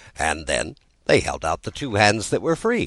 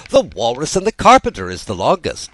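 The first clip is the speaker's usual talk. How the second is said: Tweedledum voice; 8 semitones higher, 8 dB louder than usual. Acted. Tweedledum replies.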